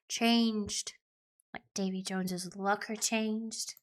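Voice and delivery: lightly voiced pirate; pirate talk. Pirate echoing Gertrude's belief in change, pirate talk. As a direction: put on a mild pirate voice. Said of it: "That's pirate talk done".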